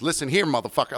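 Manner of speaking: fake angry mother voice. Retelling how Stephanie, who works inside, came out at a man, imitating Stephanie's angry mom voice. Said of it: "she put on like the Stephanie".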